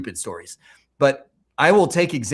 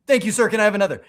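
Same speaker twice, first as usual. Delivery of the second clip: higher, louder hammed-up thanks; mock glutton for punishment; 8 semitones higher, 5 dB louder, much faster than usual. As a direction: play it as a cheeky masochist. Mock gratitude after failing.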